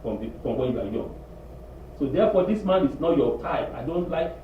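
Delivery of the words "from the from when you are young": a touch of a mother's calm, lower and softer; gently wise mother; lightly voiced mother; knowing mother. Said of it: "Your mama say".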